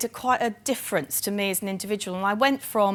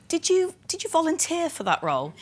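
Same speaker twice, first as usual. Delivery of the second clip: put-on higher, amused quote of a prince, no posh accent tried; Prince Charles, no accent; 8 semitones higher than usual. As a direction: retell the royal's question with a laugh in it. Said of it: "I can't do the accent 'cause it's too posh".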